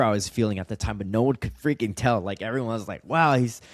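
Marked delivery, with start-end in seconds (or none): 3.1-3.6 louder, slightly raised admiring exclamation; impressed onlooker. Retold or imitated. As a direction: lightly imitate an admiring outsider. Others admiring his seemingly perfect life.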